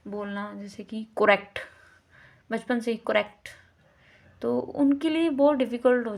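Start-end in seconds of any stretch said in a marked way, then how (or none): 1.0-1.6 "करेक्ट" with a rounded o in the first syllable, "ko-rekt"; mispronounced word. Shown as a demonstration. Teacher shows children's wrongly learnt habit, "करेक्ट" mispronounced as "ko-rekt". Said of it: "wrong सीख लेते हैं बच्चे". 3.1-3.5 "करेक्ट" said as "ko-rekt"; mispronounced word. Shown as a demonstration. Teacher shows a habit from childhood, "करेक्ट" mispronounced with an o. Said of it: "wrong सीख लेते हैं बच्चे".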